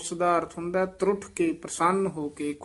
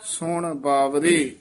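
ਸੁਣ ਬਾਵਰੇ set apart with a falling close; pause after phrase; much slower than usual. Shown as a demonstration. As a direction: say ਸੁਣ ਬਾਵਰੇ, then come to a rest. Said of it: "ਇੱਥੇ ਹੀ ਵਿਸਰਾਮ ਹੈ".

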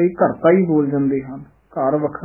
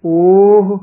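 ਓਹ said high and loud; stressed ਓਹ; 4 semitones higher, 7 dB louder than usual. Shown as a demonstration. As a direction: punch ਓਹ. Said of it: "ਉਹ ਨਹੀਂ ਕਹਿਣਾ". (ਓਹ ਉੱਤੇ ਜ਼ੋਰ)

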